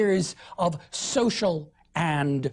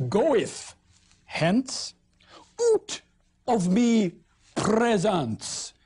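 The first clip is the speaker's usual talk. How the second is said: mock Southern accent; 3 semitones higher, much slower than usual. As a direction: play the haughty southern noble. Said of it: "not just a Southernism, but a French word".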